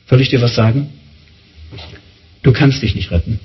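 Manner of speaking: low, measured voice of God; God's solemn verdict. Acted. God telling people they cannot save themselves, solemn and low. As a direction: deliver the verdict low, with a long pause.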